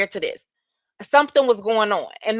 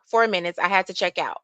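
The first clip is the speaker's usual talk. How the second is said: curt, understated annoyance; short, irritated; 3 semitones lower, 4 dB quieter, faster than usual. Retold or imitated. Woman answering her man's questions, short and mildly irritated. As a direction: imitate a woman giving a short reply. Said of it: "Very short".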